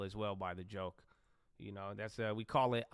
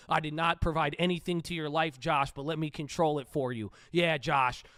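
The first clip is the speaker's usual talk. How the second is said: mocking the viewers; 3 semitones higher, 6 dB louder than usual. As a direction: ham up the whiny fans who love and hate him. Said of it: "You guys are like".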